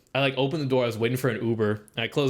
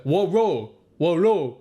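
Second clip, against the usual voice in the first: put-on a touch of an old man's slurred mumble, a bit louder; imitating the old guy's mumble; 3 semitones higher, 4 dB louder, slower than usual. Retelling the old man at the bus stop, mild mumbling imitation. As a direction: lightly mimic his hard-to-follow slurred words. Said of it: "he would talk like this".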